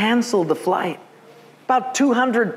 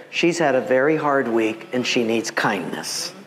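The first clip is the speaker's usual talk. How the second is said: lower, calm explanation; gentle God, lightly voiced; 5 semitones lower than usual. God telling him she needs kindness, gently.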